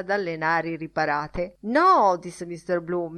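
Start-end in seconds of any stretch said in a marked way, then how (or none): 1.6-2.2 loud, higher interjection; insistent protest. A narrator's reading. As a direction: break in to keep the story going. Teller protests to resume his anecdote.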